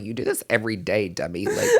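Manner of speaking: laughing through teasing words. Real, not acted. Mocking herself to her friend, laughing through it. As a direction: tease yourself while laughing.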